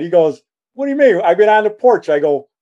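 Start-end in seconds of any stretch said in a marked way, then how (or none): 0.7-2.1 put-on drunk old man. Drunk father insists at door.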